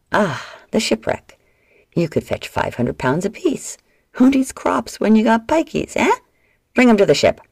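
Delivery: gloat, then bark the order; greedy slaver. A narrator's reading. Slaver gloating over the girls' price, mild bark.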